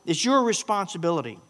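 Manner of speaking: hamming up a spoiled customer's insistence; entitled demand. Retold or imitated. Preacher parodies an entitled person insisting he's owed.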